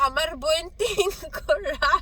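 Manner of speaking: put-on fast, comic Bengali accent; hammed-up Bengali accent, very quick; jokey Bengali accent. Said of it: "my jokey Bengali accent".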